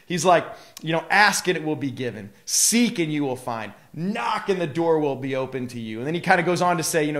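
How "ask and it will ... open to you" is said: mildly fervent quoting of Jesus. Retold or imitated. Preacher voicing Jesus on asking, seeking and knocking, mildly fervent. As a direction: lean on each command with earnest conviction. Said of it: "there's, like, a fervency about it".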